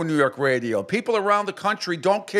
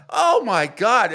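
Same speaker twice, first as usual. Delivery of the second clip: slow, drawn-out exasperation; exasperated; 7 semitones higher, 4 dB louder, much slower than usual. Real, not acted. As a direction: groan it in disbelief. Exasperation at radio host.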